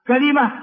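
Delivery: كلمة as ka-li-ma; original kalima. Shown as a demonstration. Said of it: "ثلاث لغات". (كلمة بكسر اللام: كَلِمة)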